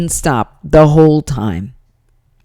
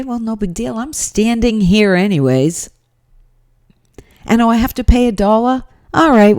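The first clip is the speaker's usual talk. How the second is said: higher, quick and breezy, shrugging it off; pretend grateful shopper; 3 semitones higher than usual. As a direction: play the easygoing customer she should have been. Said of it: "But she should have been".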